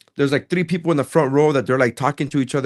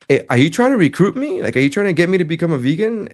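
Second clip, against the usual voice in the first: mock exasperated; 6 semitones higher than usual. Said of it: "and so then I said".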